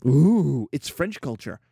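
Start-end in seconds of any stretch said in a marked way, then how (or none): 0.0-0.7 mock awe. Mocking awe at French.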